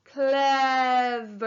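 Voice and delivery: CLEVER stretched into two long syllables; said slowly. Shown as a demonstration. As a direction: draw out CLEVER for counting syllables. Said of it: "Say the word slowly".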